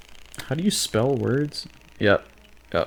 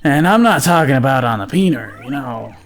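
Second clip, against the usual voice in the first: raised, emphatic mock stand-up delivery; joke-teller; 3 semitones higher, 3 dB louder than usual. Continuing a joke about a headless guy, joke-teller voice. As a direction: play to an imagined comedy crowd. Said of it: "That's how you start a joke".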